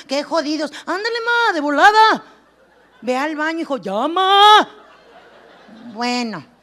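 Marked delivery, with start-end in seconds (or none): 0.8-4.7 louder, urgent, half-laughing plea; pleading mom call. Retold or imitated. Comedian as a modern mom begging her son to use the toilet. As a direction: beg the kid to go, desperate. Mother pleading kid to pee.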